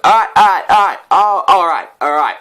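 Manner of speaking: high, loud frantic all rights; calm him down in a comic panic; mock panicked placating. Me placating the drunk stranger, hammed-up panic. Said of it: "I was like".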